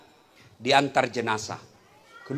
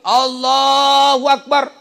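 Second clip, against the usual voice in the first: imam's takbir; 9 semitones higher, 10 dB louder, much slower than usual. Retold or imitated. Imam's second takbir, drawn out.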